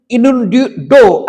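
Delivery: innuendo in slow separated syllables; innuendo pronunciation demo. Shown as a demonstration. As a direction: sound out innuendo slowly. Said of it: "ऐसे करके उसको pronounce करते हैं".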